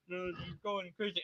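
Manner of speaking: very soft small voice; barely-there squeak of a toy; tiny toy voice. Pretend. Toy begging to join the video, tiny soft voice. Quiet voice talks back.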